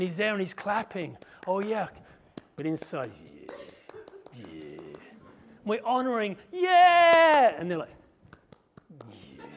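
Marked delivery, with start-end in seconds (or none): 3.1-4.8 low, soft whispered yeah; inside, a whispered sour yeah; grudging whisper. Acted. Inner grudging yes. 6.5-7.5 high, loud mock cheer; clapping along with a fake yeah. 9.1-9.4 low, soft whispered yeah; inside, a whispered sour yeah; grudging whisper. Acted. Inner grudging yes.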